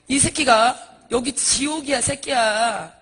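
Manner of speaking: loud, drawn-out acted scolding; acted angry demon; cursing demon. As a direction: snap back as a demon in charge of hell. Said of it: "귀신이 그래요".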